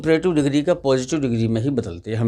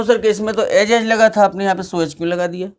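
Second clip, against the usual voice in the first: voicing a student; 4 semitones higher than usual. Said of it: "अब आप कहो".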